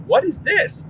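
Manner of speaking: put-on high, puzzled kid's question; imitating his four-year-old self, confused; a kid asking his cousins, high and puzzled; little kid's surprise. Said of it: "And I just remember saying, like".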